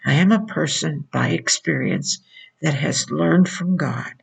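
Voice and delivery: ordinary talk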